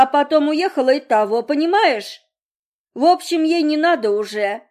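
father justifying himself, wound-up; rambling father. Acted. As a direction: talk on and on like a wound-up toy. Father explaining, flustered.

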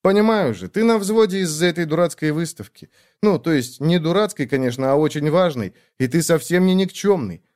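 a caring sister who won't take no; bossy little sister. Acted. Sister encouraging brother.

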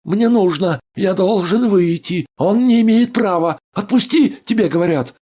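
very high, loud pleading demand; trapped doctor shouts at the guard, desperate. A narrator's reading. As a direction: scream at the guard to let you go. Andrei demands to be let out.

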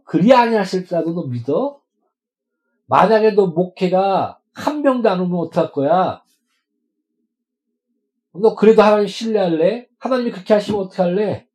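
그리 아니하실지라도 with a rising question tune, pressing; challenging questioner. Retold or imitated. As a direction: press him with a testing question. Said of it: "질문하는 사람도 봤습니다".

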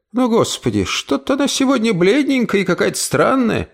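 put-on high, chatty old woman; fussing old aunt. Aunt watches Emily walk up, high and fussing. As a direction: fuss over the niece. Aunt's voice talking to herself.

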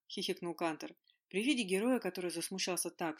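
ordinary delivery, nothing marked

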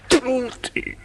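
disgust. Acted. Disgusted spit at commas.

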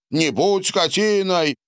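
shouted out. A narrator's reading. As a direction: yell at Donald to apologise. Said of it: "выкрикнул Борис".

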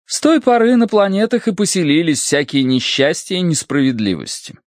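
high character voice telling a legend; Sirotina Markelovna, animated storyteller. A narrator's reading. Sirotina Markelovna tells the crew an old legend, animated high voice.

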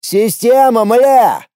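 loud exasperated yell; angry shout. A narrator's reading. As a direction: curse at the system. Shouting at the system.

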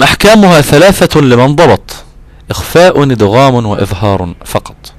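slow chanted recital of a teaching poem; verse recitation. Shown as a demonstration. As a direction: intone the verse line slowly.

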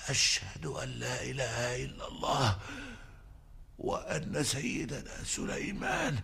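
low, faint, dying last words. Acted. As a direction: fade out like a dying old man.

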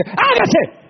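booming high divine command; God commanding. Acted. God calling creation into being, booming command. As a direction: thunder it out as the Creator. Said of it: "ya Dios no dice".

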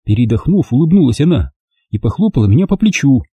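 ordinary delivery, nothing marked

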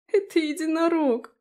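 high tearful wail; crying out. A narrator's reading. Abi tells Daphne about the unicorn, tearful high cry. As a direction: blurt it out through tears. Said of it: "заплакала Аби".

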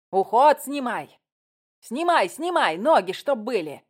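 high, loud, urgent commands; shouted orders. A narrator's reading. Director wants the exit filmed, shouting. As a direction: shout directions to the camera crew. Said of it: "прокричала Рудольф".

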